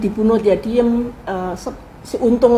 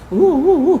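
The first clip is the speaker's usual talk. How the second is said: retold sobbing sounds, higher and louder; mock sobbing; 6 semitones higher, 5 dB louder, slower than usual. Retelling how Bung Karno wept, mock sobbing. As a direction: imitate Bung Karno's sobs at the grave. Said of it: "Nangisnya tuh sampai".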